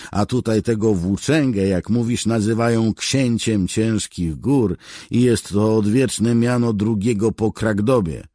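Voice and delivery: long angry tirade, high and loud; clearly annoyed. A narrator's reading. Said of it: "już wyraźnie rozeźlony". (rozeźlona, głośna tyrada)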